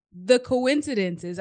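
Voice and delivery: "coincidences" set apart slowly, as if quoted; air quotes. Shown as a demonstration. Podcast guest doubting chance, "coincidences" in audible air quotes. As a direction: draw out "coincidences" as a so-called word. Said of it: "I use that in air quotes".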